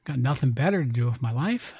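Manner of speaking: put-on hammy Southern-accent rant. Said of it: "I love how you get your Southern accent".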